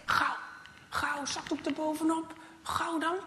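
quick hushed urging, rising on dan; hurried urging. Acted. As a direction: hurry yourself along. Hurrying to hide the knife. (gehaaste aansporing)

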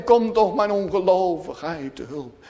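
pleading cry to God, surging on "Heere"; imploring sinner's prayer; desperate cry. Acted. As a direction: cry out for rescue, then sink on the last words. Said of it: "dan blijft er niet anders over dan die schreeuw".

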